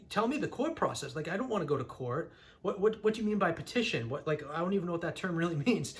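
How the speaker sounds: agitated retold protest, pitch jumping up; pissed off. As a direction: demand answers, replaying your frustration. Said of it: "I was pissed".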